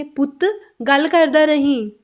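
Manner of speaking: slow Punjabi demo. Shown as a demonstration. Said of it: "Punjabi में कैसे बोलेंगे?".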